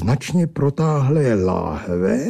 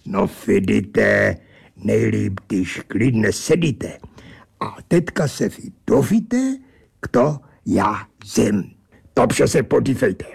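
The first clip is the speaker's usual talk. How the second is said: lightly voiced pompous angel; odd angel voice. Angel character speaks.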